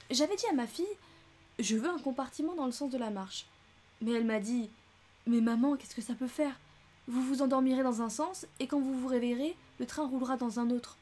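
lightly voiced talkative lady; gossipy old traveller; chatty American lady. Mrs Hubbard rattles on.

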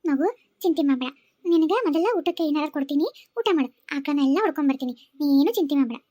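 put-on calm the frightened child; reassuring. Woman comforts the boy.

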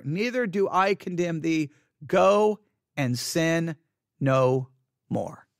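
gentle, drawn-out quoting of Jesus; Jesus speaking. Retold or imitated. Jesus forgiving the woman, slow and fading.

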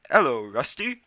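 bright, loud cat greeting. A narrator's reading. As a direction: call it out from the fence. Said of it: "mewed a voice from the fence".

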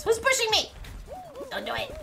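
squeaky high protest. Real, not acted. Being pushed in the game.

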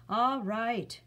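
loud exasperated shout at the sky. Acted. Chiron shouting at the gods after thunder, loud exasperated shout. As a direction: yell up at the thundering gods, fed up. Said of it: "Chiron shouted".

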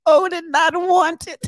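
high, slow, laughing repeat. Real, not acted. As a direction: savor the punchline, slow and high.

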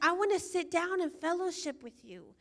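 gentle, friendly invitation; a hint of God calling to a friend; God speaking tenderly.

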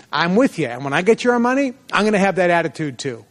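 pumped-up promise to a mentor; motivated. Retold or imitated. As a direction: say it like you can't wait to get there. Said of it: "I was, like, motivated".

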